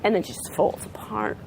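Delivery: energy winding down in steps; coming down. Shown as a demonstration. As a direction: let pitch and force settle phrase by phrase. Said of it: "she's coming down".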